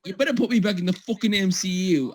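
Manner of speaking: put-on a light, angry cockney accent; a touch of angry cockney; angry cockney Tom Holland. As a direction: lightly growl it as a cockney bloke. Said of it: "angry cockney Tom Holland".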